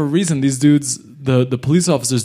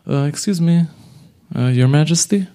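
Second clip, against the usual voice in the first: hesitant lawyer; 3 semitones higher than usual. Retold or imitated. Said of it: "the lawyer interrupts and he goes".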